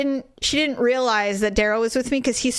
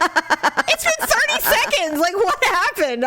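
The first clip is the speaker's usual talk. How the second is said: mock bewilderment; 9 semitones higher, slower than usual. Husband baffled in retold quarrel.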